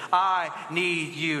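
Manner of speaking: slow, deliberate phrase for repeating; measured line for a crowd to echo; leading a recitation. Shown as a demonstration. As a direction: give each word its own space. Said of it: "Say that with me".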